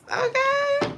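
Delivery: high, loud birthday wish breaking with laughter; laughing-crying wish. Real, not acted. Wishing Jesus happy birthday, high laughing-crying squeal. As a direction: squeal it through tears of laughter.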